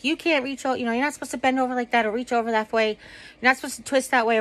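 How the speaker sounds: retold yelling. Husband telling her not to twist, quick mild mock yell. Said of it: "Jimmy's yelling at me".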